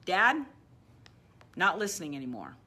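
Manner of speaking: put-on loud call to the old voice. Shown as a demonstration. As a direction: call Dad out loudly. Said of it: "So call it out for the name".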